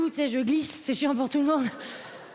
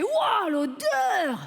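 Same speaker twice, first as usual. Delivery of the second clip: mock disgust; 5 semitones higher, much slower than usual. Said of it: "Déjà, je fais".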